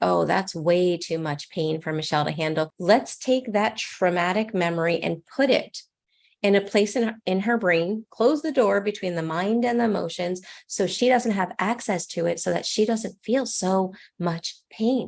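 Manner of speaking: usual speaking voice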